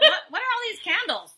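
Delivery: high, loud, giggling baffled clerk; laughing mock clerk. Clerk wandering into City Hall, laughing baffled squeal. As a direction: squeal the question through laughter. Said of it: "they're gonna be like".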